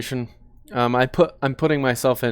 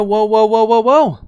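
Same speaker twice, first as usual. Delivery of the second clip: higher, louder mock "whoa, whoa" calls; "whoa" repeated higher and louder, like an alarmed shout; imitating an urgent warning; 9 semitones higher, 8 dB louder than usual. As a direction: throw the partner's alarm back, pitched up. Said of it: "She doesn't even react to".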